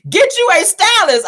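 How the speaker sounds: loud, high, slow, drawn-out demand; exasperated demand. Real, not acted. Host fed up with Tiffany's outfits, loud, slow exasperated demand. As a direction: call her out, stretching every word.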